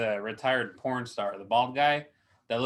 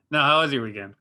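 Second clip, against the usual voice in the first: "how" pushed out louder, playfully insistent; louder redo of the question; 5 dB louder, faster than usual. Shown as a demonstration. Co-host re-asks his guest louder, playful insistence. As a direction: ask it again, louder and mock-firm. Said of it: "No, no, no one cares".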